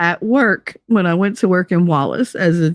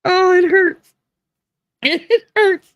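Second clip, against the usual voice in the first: laughing; 11 semitones higher, slower than usual. Real, not acted. Laughing till it hurts.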